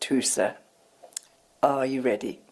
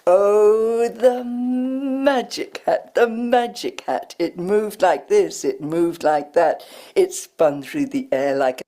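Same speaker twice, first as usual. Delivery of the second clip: put-on reading aloud to a child with pauses before the rhymes; sing-songy read-aloud. She reads The Magic Hat to children, sing-song. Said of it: "She created that sing-songy sound".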